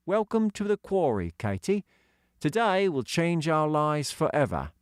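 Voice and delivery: put-on high, light voice for young Doggy; young boy voicing; boy character voice. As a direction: lift into a kid's voice. Child character voice.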